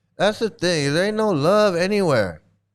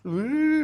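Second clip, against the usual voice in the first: higher, drawn-out mock "ooh"; 5 semitones higher than usual. Mocking the guys in the mental hospital, higher mock "ooh". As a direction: imitate them with a raised hooting "ooh".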